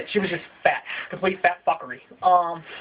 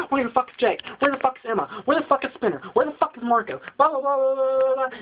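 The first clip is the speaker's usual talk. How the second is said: outraged fans; 6 semitones higher than usual. Retold or imitated. Fans tweeting about missing characters, indignant. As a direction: demand answers like angry fans. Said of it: "everybody's tweeting and shit".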